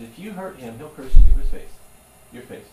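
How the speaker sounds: building into a huge shout; Satan's taunt. Retold or imitated. Satan taunting God about Job, rising to a shout. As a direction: hurl the curse at full voice. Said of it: "he says".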